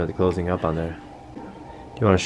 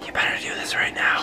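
threatening hushed whisper; whisper yelling. Pretend. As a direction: scold in an urgent whisper. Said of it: "whisper yell".

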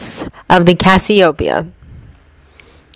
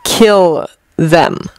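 drawn-out, uneasy repeat of Kill them; slow repeat. Acted. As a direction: let Kill them hang, slowly. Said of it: "Stark repeated slowly".

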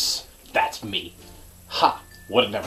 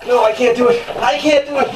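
panicked pleading; 5 semitones higher, 4 dB louder, faster than usual. Real, not acted. In ice bath.

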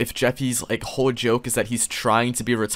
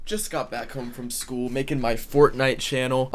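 put-on kid voice; 5 dB quieter than usual. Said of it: "Sticky F N F".

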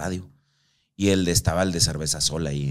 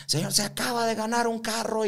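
high, hyped stadium announcer; excited game-show host; 14 semitones higher, 5 dB quieter than usual. Retold or imitated. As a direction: sell it like a live host to the crowd. Announcer voice to winner on air.

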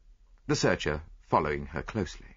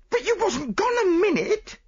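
high, loud snapping retort; angry retort; 6 dB louder than usual. Acted. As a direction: fire it straight back at her. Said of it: "retorted the chambermaid angrily".

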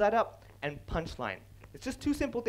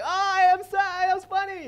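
much higher and louder, puffed-up self-praise; smug mock pride; 14 semitones higher, 10 dB louder than usual. Listener who guessed the pun, hammed-up smug. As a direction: crow about guessing the joke.

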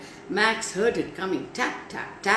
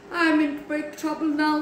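worried; 5 semitones higher than usual. Acted. Max's worried thought.

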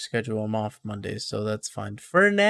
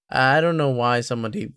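voice breaking. Real, not acted. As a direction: voice cracks mid-sentence. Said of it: "my voice broke".

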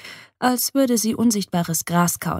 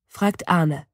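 plain reading voice

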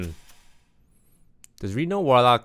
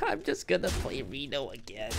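laughing softly; 3 semitones higher, 9 dB quieter than usual. Real, not acted. Laughs at own play.

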